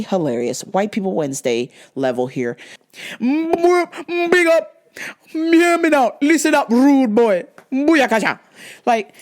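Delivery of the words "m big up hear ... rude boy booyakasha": loud, higher mock Jamaican patois; a mock Jamaican patois shout-out; mock Jamaican accent. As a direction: ham up a Jamaican rude boy accent. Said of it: "talking in a Jamaican accent".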